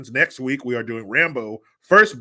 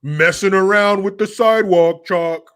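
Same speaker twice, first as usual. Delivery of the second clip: casual brother; 7 semitones higher, 10 dB louder than usual. Retold or imitated. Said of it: "he's like".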